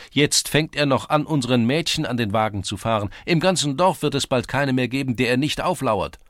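high, loud outraged complaint; stirring up the lads; indignant rabble-rousing. A narrator's reading. Lad rousing friends against the mayor.

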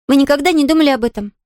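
put-on high, earnest child's voice; musing little girl. Girl telling the invalid her notion about sleep, earnest. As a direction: share an odd idea as a little girl.

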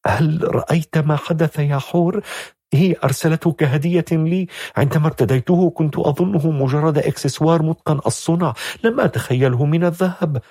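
put-on high, anxious young woman's voice; a frightened girl telling her friend what happened; tense. A narrator's reading. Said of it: "قالت شذا بتوتر". (بتوتر وقلق بصوت عال)

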